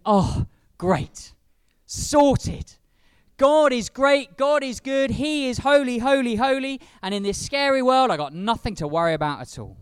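naive relief. Pretend. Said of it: "Maybe you'd expect him to think".

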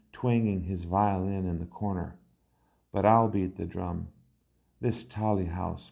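measured, lilting recital in short phrases; poem reading. Acted. Poet recites an ode to Indian food at a restaurant, poem reading. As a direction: read it as a poem, savouring each item.

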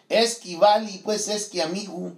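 light imitation of a cold-country Michoacán accent; a hint of the local rural accent; Jalisco highland accent. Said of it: "ese acento de los valis".

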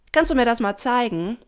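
high, loud, innocent request; eager young dolphin. A narrator's reading. Pina provokes Doña Rosa, asking high and eagerly. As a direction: ask with pushy eagerness.

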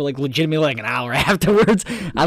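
normal talking voice

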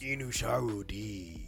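slow, exaggerated Japanese-accented title; mock Japanese accent. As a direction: draw it out in a hammed-up Japanese accent. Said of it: "you just did an Asian accent".

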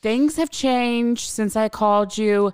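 a nosy neighbour reporting live to the dispatcher; gossipy live report. Retold or imitated. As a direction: narrate the fight like a thrilled spy.

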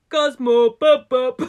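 loud, high mock call for a cat; hammed-up neighbor calling his cat. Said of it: "do a very bad impression".

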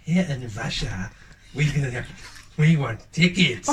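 slow menacing mock Russian accent; heavy russian accent menace. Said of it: "Not Russian".

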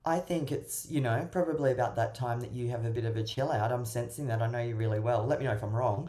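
a breezy, airy goodbye, mildly performed; breezy reassurance. Retold or imitated. Coach showing what to say to a withdrawing partner, light and breezy. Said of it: "say to them".

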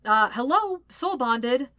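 incredulous, affronted retort; sputtering. A narrator's reading. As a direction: sputter it as if it's obvious. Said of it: "Sokka sputters".

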